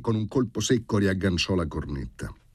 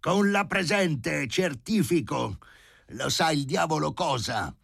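irritated reading aloud; 10 semitones higher than usual. A narrator's reading. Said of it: "le lesse ad alta voce, stizzito".

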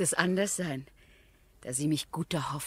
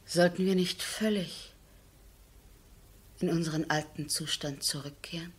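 leise flüsternd gefragt; flüstere die Frage zu deinem Mann; geflüstert. Acted. Vertrauliche Frage an Eduard. (Flüstern zum Ehemann, ganz leise)

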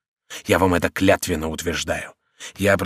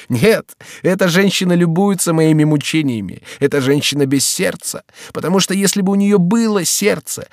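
raised, pleading voice of a despairing lover; passionate young count; 6 semitones higher, 6 dB louder than usual. A narrator's reading. Young count to the servant, in despairing outcry. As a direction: pour out the lover's despair, loud and high. Henri rails against the woman.

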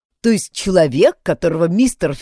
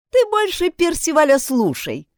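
critical; 12 semitones higher, 4 dB louder than usual. A narrator's reading. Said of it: "критически заметила Энни".

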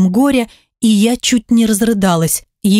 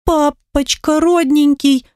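put-on tearful child; 6 semitones higher, slower than usual. Daughter tearful, high, slow.

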